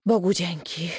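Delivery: sighing thanks of relief; relieved sigh. A narrator's reading. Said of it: "westchnienie ulgi". (z westchnieniem ulgi)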